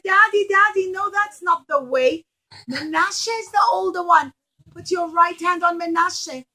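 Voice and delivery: a son begging his father to stop; urgent protest. A narrator's reading.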